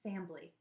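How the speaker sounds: "Fambly" with a b in the middle; "Fambly", two syllables, Southern style; Southern pronunciation. A narrator's reading. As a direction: say family as "Fambly". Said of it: "it sounded like she was saying".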